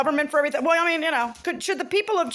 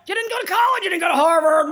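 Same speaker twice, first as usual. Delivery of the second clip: loud, scornful jeer; mocking shout; 6 semitones higher, 4 dB louder, faster than usual. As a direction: hammer the insult home. Mocking what he was told.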